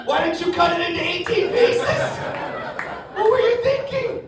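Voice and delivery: high, disbelieving outburst; incredulous. Retold or imitated. Son on the phone to his stoned mom, high and incredulous. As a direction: sound like you can't believe your mom.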